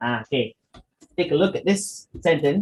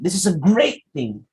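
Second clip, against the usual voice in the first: enthusiastic; 4 semitones higher, 4 dB louder than usual. Shown as a demonstration. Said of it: "your voice will reflect it".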